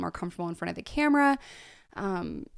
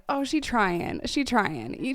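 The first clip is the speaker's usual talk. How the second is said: teasing pity; 4 semitones higher, 4 dB louder, much slower than usual. Real, not acted. Pitying mock of old self.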